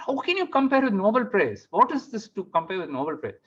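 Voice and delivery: high-pitched, exasperated comeback; indignant retort. Retold or imitated. Husband arguing back at wife about the comparison, indignant. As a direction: protest in disbelief, starting high.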